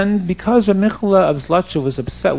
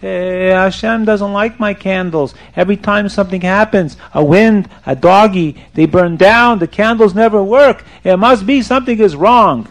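higher-pitched, wailing complaint; mock crying; 4 semitones higher, 4 dB louder than usual. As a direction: lament it like a tearful man, lightly acted. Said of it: "How come you're still crying?".

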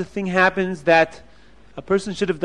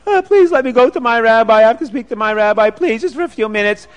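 begging; 4 semitones higher, 4 dB louder than usual. Acted. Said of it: "he's begging and he's crying".

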